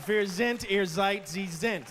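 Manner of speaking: "Wir sind, ihr seid, sie sind" said in German; mock German recital; German conjugation. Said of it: "Then I went German".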